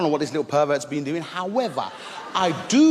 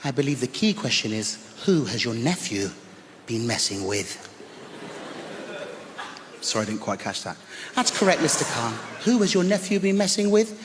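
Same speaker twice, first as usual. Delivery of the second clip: teacher calmly correcting the uncle; cool teacher. Retold or imitated. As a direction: turn the question back on him coolly. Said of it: "she said".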